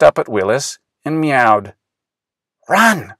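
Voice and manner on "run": urgent cry. A narrator's reading. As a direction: yell to clear the street. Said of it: "cried Willis".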